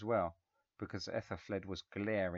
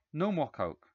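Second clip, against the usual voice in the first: stern father; 7 semitones higher, 6 dB louder than usual. A narrator's reading. Father scolding son.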